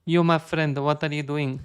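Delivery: playful imitation of a Middle Eastern accent; mock foreign accent. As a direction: greet a pal in a put-on Middle Eastern accent. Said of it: "which country has this, um, accent".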